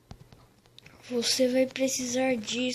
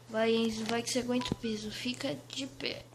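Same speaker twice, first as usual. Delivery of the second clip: whispered strain lifting something heavy; straining under heavy weight; 3 semitones lower, 5 dB quieter, faster than usual. Real, not acted. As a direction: push up under a heavy load. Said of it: "tá pesado demais".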